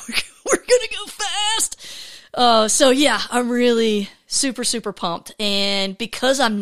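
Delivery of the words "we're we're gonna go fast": much higher, giggling squeal; laughing excitement. Real, not acted. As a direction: break into a giddy laugh. Laughing repeat of her line.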